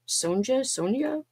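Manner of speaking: "Sonja?" tried twice with a questioning rise; "Sonja?" said unsure, rising; unsure pronunciation. Real, not acted. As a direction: test out "Sonja?" doubtfully. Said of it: "I don't even know".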